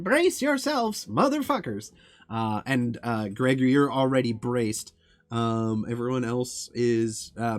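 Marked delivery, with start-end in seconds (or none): 0.0-1.9 loud, high repeat of the warning; echoed bellow. Retold or imitated. DM repeating Fap's warning over the storm, loud bellow. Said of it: "here over the, the storm".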